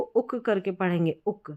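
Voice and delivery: उक with a short u before k; short vowel. Shown as a demonstration. Teacher demonstrating the double-O-K pattern, short vowel. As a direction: say उक briefly, as "uk", never "ook". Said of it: "short है".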